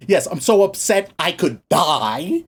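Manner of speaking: slow, mock-earnest melodrama; understated whiny self-pity, drawn out; Jonah, genuinely upset. Whiny prophet answering God's question, mildly melodramatic. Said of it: "Jonah genuinely says".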